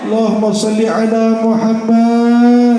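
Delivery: loud, slow chanted invocation; called-out blessing. Acted. Preacher leads the crowd in salawat, loud and drawn out. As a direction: call the salawat out to the hall.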